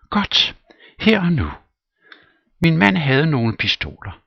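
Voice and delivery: shrill vengeful widow; Popova vengeful. Acted. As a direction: relish the threat. Popova fetching pistols.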